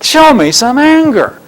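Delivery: high, slow goading call; taunting demand. Retold or imitated. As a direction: push them hard to show anger. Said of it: "You wimps, that's all you can do".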